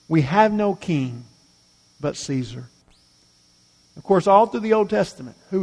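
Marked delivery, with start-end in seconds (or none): 0.1-2.7 quiet repeat. Shown as a demonstration. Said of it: "Really a blasphemous statement".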